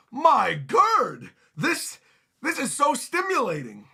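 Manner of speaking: overexcited giant swooning at Gerd; smitten gush. Acted. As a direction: gasp it out lovestruck. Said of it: "He goes".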